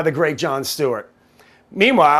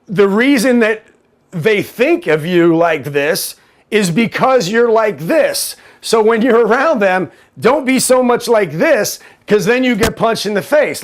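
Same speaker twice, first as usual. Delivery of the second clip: louder, emphatic mock explanation; mock lecturing; 4 semitones higher, 4 dB louder than usual. Host explaining to minions why they get punched, mock exasperated.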